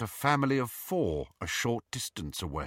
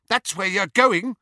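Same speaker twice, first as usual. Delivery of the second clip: high, louder gloating taunt; relishing taunt; 11 semitones higher, 6 dB louder than usual. A narrator's reading. Petunia taunting her sister with relish, high and gloating. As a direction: savour the insult. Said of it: "said Petunia with relish".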